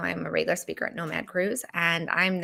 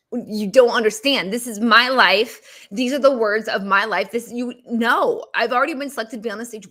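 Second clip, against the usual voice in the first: louder, pleading and insistent; frustrated protest; 3 semitones higher, 5 dB louder than usual. Retold or imitated. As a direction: fight for your words, hands up. Pleading with organisers who cut talk.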